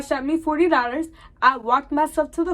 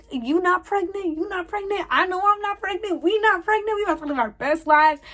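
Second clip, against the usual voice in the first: much higher, giddy and squealing; thrilled celebration; 7 semitones higher than usual. Retold or imitated. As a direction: cheer with relief for your friend. Celebrating friend not pregnant.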